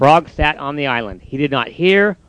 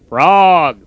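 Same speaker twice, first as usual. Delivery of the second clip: a louder call across the water; calling shout; 5 dB louder than usual. Acted. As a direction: call out to a far friend. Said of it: "shouted Toad".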